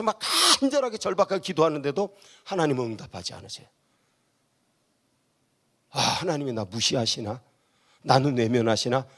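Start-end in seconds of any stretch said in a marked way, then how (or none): 5.9-9.1 low, subdued wondering aloud; doubting inner thought. Acted. Praying believer wondering whether God ignores them, low doubting murmur. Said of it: "이런 생각 들겠지".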